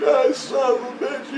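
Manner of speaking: very high, put-on outraged voice; retold cursing. Voice reacting to the comeback, mock outrage. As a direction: curse in a high imitation of your opponent.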